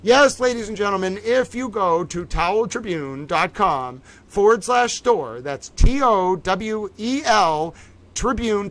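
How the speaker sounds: slow, showy presenter voice spelling it out; lightly hammed-up hostess pitch; game show hostess. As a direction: present it like Vanna White on a prize board. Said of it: "I'm going into towel Vanna White mode".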